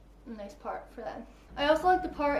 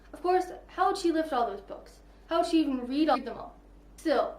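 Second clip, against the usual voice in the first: lightly voiced book reading; reading aloud. A narrator's reading. Vlogger reading a book excerpt, gentle reading voice. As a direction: read the passage to viewers.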